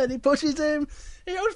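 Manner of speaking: high-pitched, rising storytelling; excited narration. A narrator's reading. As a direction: let the swing's momentum lift the voice. Narration builds with the swinging.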